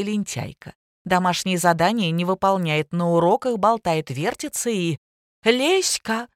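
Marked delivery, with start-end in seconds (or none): 5.4-6.3 calls out a name at the top of her voice; yelling. A narrator's reading. Mother yells for her daughter, shouting across the flat. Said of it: "заорала Зина".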